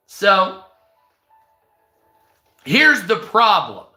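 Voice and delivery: ordinary talk, nothing marked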